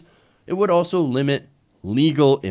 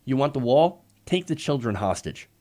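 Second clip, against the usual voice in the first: scheming adviser; 3 semitones lower than usual. Pretend. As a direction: murmur it like a sly schemer. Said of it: "Stephen Miller, uh, inside the Trump administration said".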